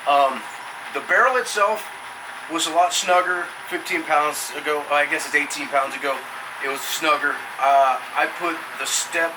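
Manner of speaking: talking through the cold, pitch up; chatting tense from icy water; in ice cold water. Real, not acted. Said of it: "focus on the cold".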